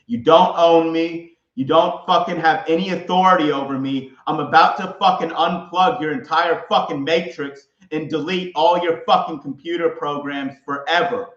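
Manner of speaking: defiant rage at the simulation; furious shouting. Real, not acted. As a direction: bellow every word at him. Ranting furiously at Satan.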